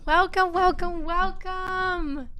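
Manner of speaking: high, loud sing-song hellos; excited greeting. Real, not acted. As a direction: greet everyone with bubbly excitement. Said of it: "I am so excited to be back".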